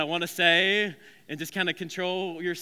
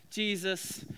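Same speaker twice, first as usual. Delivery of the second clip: Italian mama; 3 semitones higher than usual. Acted. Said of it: "I don't know why she's Italian now".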